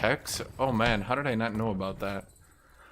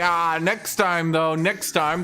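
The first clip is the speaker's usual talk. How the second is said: mock orc; 5 semitones higher, 3 dB louder, slower than usual. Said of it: "They're like".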